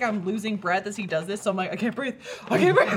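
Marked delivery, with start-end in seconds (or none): 1.7-2.2 mild retold breathless worry; panic attack. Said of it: "I start panic attacking". 2.5-2.9 loud, high mock panic; high-pitched cry for air, played for laughs; panic attack. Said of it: "I start panic attacking".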